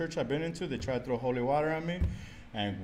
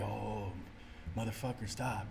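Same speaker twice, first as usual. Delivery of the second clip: softer, dismissive voice of God; muttered; 2 semitones lower, 9 dB quieter than usual. Retold or imitated. Imagining God quietly telling him to stop, dismissive. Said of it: "be like".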